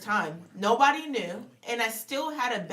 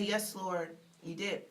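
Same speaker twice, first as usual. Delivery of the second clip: humble reply; 6 dB quieter than usual. Retold or imitated. Answering God humbly.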